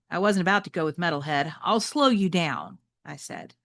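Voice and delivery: reading a novel aloud to the class; teacher reading a chapter book to students; story narration. Acted. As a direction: tell it like a read-aloud storyteller.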